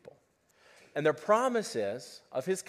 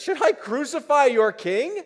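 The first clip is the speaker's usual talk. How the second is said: Pilate's question; 10 semitones higher, 9 dB louder than usual. Acted. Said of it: "and he says".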